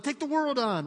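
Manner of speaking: high, loud, fired-up imitation; elated battle cry. Preacher as the woman after praying, elated and bold. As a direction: imitate someone ready for anything. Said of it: "she's on cloud nine".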